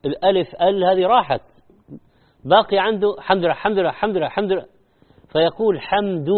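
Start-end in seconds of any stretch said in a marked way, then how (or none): 2.5-4.6 حمد لله said without the initial alif, "حمد لا"; clipped حمد لله, no opening ال; dropped alif. Retold or imitated. Teacher mimicking sloppy worshippers, clipped. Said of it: "أول شيء الألف راحت".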